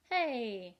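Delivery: sudden loud hey to grab attention; loud call. Real, not acted. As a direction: call out sharply. Calling kids' attention.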